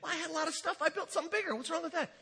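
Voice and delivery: a hint of a man who sees nothing wrong; rich fool protesting. Rich fool pleading with God about his barns, lightly whiny.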